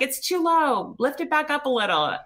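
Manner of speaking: high strained protest from the pain; pained complaint. Retold or imitated. In labor, telling husband the leg is too high, high pained cry.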